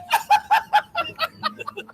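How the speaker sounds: high-pitched burst of laughter. Real, not acted. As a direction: crack up at the joke. Laughs at aids finger joke.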